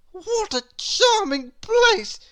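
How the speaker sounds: high, slow, put-on delight while freezing; falsely cheerful girl. A narrator's reading. Little Miss Stubborn in Cold Land, high and falsely cheerful. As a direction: pretend you love it. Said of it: "she said, shivering".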